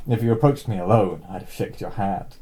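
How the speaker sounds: a lightly posh lady doing a rural Alabama man; plummy English housewife quoting a gunman, barely shifted; posh female accent. Acted. Housewife retelling the gunman's words in a light posh accent. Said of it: "my female accent is just posh".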